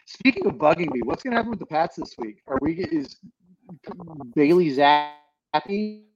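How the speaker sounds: muffled bad connection audio; underwater. Real, not acted. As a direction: voice garbled like talking underwater. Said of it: "You sound like you're underwater".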